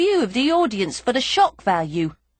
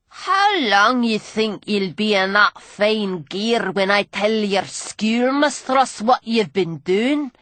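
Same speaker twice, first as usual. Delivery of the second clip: put-on sneering old drunk; slower than usual. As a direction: taunt her like a grimy old rogue. Gully's voice.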